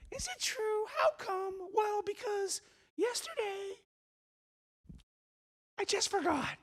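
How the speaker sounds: put-on high, soft, halting child voice; little girl. Little girl losing her question before the visitor, high halting voice. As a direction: feel for the question in a tiny high voice. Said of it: "This little girl went".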